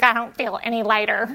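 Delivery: laughing as she retells her son's words; laughing while quoting. Retold or imitated. Mom retelling her son's complaint, laughing. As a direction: quote a kid's sad complaint through laughter. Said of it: "He was like".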